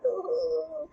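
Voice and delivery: mild, high frantic moan; a lightly hammed Lady Macbeth wail; mock freaking out. Teacher imitating frantic Gertrude, mild mock wail. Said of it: "you know, freaking out".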